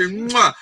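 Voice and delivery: a big smacking air kiss; kiss sound. Retold or imitated. Teasing Luis with a big smacking kiss. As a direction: blow a playful kiss. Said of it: "Let me say".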